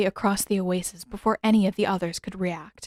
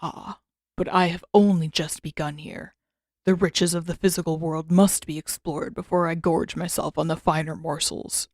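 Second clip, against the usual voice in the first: deep rich creature voice; 2 semitones lower than usual. Acted. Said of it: "in a deep, unnervingly rich voice".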